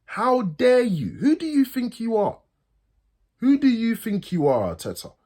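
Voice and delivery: real indignant outrage; furious. Real, not acted. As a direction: demand it of the manager, seething. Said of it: "I'm so angry right now".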